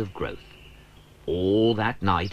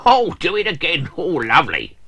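higher, louder blissful cry; happy squeal; delighted; 10 semitones higher, 7 dB louder than usual. Acted. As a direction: relish the bubbles. Cranky enjoys the wash.

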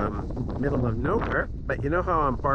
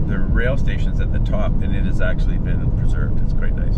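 shouting over wind; 3 semitones lower, 7 dB louder than usual. Real, not acted. Talking over wind while driving.

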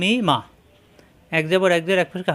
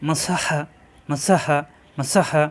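slow repetition; slower than usual. Shown as a demonstration. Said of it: "আরেকবার".

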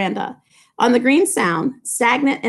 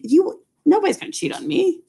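higher mock Tom voice; imitating Tom; 8 semitones higher than usual. Teacher voicing Tom Buchanan's thoughts, a higher mock voice. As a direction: voice Tom's smug certainty.

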